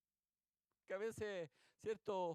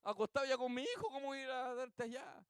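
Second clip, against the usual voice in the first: raised-pitch mock protest, quick start; shouting from inside; 5 semitones higher, 3 dB louder, faster than usual. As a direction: call out an excuse from bed. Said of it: "el otro de adentro le grita". (protesta a gritos, imitando al vecino)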